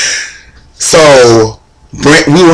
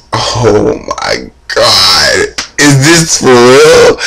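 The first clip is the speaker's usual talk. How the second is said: stunned disbelief; much slower than usual. Retold or imitated. Stunned at meeting a singer.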